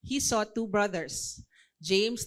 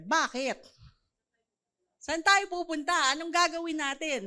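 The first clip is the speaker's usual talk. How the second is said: questioning reply; 8 semitones higher, 4 dB louder than usual. Retold or imitated. Imagined reluctant reply to call.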